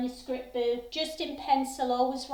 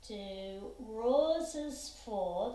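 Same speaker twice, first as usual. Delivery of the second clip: rhythm spoken slowly; 2 semitones lower, 6 dB quieter, much slower than usual. Shown as a demonstration. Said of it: "that could be three quavers there".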